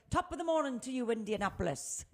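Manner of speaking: a bad, hammy Irish accent greeting; mock Irish radio greeting in a clumsy Irish accent; horrible Irish accent. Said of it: "that was a horrible accent".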